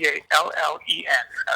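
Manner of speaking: C A L L E N slowly, letter by letter; pointed spelling. Real, not acted. Interviewee spelling his name for interviewer, pointedly slow. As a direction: spell it out with strained patience. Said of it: "say this just one more time".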